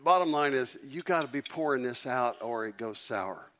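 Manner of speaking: loud preaching burst; evangelist voice. Shown as a demonstration. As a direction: belt it like a revival preacher. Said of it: "I'm gonna use my evangelist voice now".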